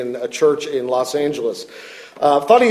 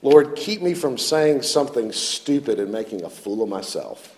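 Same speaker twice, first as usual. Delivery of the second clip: quiet prayer; 6 semitones lower, 4 dB quieter than usual. Retold or imitated. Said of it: "I often pray things like".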